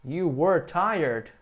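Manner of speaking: you were tired said slowly, falling; teacher sentence, slow; slow statement. Shown as a demonstration. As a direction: model a plain statement. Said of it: "É uma frase afirmativa".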